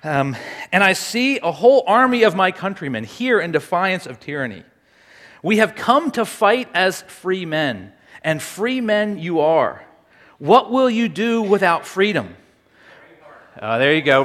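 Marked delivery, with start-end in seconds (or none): 0.7-12.4 rally the troops with deliberate weight; dramatic speech reading. Acted. Speaker reading Braveheart speech to a guessing audience, measured rallying oratory. Reads second famous speech.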